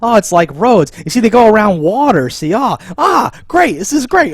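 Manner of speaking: rising glee over the puzzle; imitating excited nerd. Imitating the nerd solving the map, getting excited. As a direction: cheer on your own discovery. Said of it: "I was imitating him".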